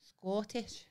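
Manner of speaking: softly tried-out Scottish accent; attempted Scottish accent. Shown as a demonstration. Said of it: "I can do Scot".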